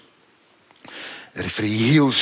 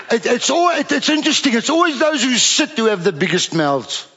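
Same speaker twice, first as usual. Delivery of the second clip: teasing with laughs; 8 semitones higher than usual. Real, not acted.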